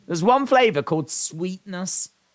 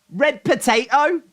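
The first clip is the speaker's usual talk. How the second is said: laughing squeal; 8 semitones higher, 4 dB louder than usual. Real, not acted. Laughing at flavor.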